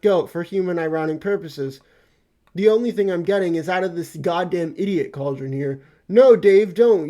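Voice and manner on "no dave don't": sudden loud plea to stop; shouted "no, don't" at Dave; alarmed shout. Acted. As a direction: yell it to stop him in time. Stopping Dave from doing something.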